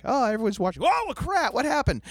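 high, alarmed voice of sudden panic; startled, frightened cry of confusion; panicked quote. Retold or imitated. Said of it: "jarring fashion where it's like".

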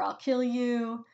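slow, mildly menacing mock threat. Reviewer mimics the cursed advent calendar, slow mock menace. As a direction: drag out the threat like a creepy toy. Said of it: "kind of threatening".

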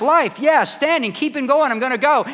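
put-on spirited old man. Imitating spirited ninety-year-old friend.

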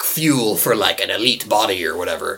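salesman voice. Acted. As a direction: sell it like an infomercial. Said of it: "What accent was that?".

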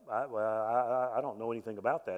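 imitating a stammering receptionist, halting then rushed; flustered stammering. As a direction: stumble over the first words, then blurt out the rest. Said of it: "so she's stammering around".

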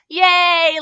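put-on loud, high cheer of a child; excited kid yay; shout. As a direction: whoop with delight. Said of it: "Lyra shouted".

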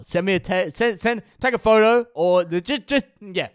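high, loud excited praise; hyped up. Real, not acted. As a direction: cheer the viewers on. Hyped sign-off to viewers.

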